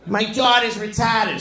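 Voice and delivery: fifth-grade teacher explaining sex ed, prim and high; mocking the Boston teacher. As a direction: lecture the class like a stiff old schoolmarm. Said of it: "She used to tell us every day".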